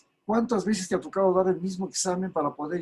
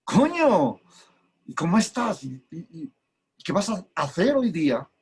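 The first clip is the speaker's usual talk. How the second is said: mock Spain Spanish. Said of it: "hablar el idioma español de España".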